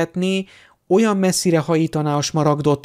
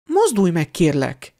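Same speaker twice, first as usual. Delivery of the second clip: higher, urging him on impatiently; 4 semitones higher than usual. Acted. Hermione urging Harry to come closer, impatient. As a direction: hurry him up, eager and impatient. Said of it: "türelmetlenkedett a lány".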